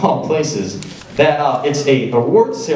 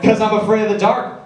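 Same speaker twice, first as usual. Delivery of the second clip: mock scared reply; 8 semitones higher than usual. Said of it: "And I'm like".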